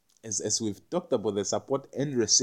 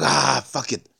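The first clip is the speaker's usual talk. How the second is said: letting go; 3 semitones higher, 6 dB louder, slower than usual. Retold or imitated. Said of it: "And like".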